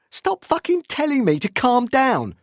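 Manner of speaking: loud, high, furious outburst; angry warning. A narrator's reading. Anderson warning Tim as he paces, furious shout. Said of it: "Anderson warned him".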